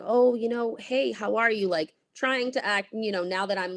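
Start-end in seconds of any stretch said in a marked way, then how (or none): 0.0-1.7 fake-friendly greeting. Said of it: "He's like".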